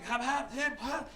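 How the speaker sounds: mock hacking cough; imitated coughing. Grandfather climbing over the bed, imitated coughing. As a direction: hack out an old man's cough. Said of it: "and he's coughing".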